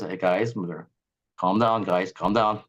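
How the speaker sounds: a lightly voiced, low-pitched soothing lawyer; calm the panicking colleagues down; calm attorney. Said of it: "the attorney says".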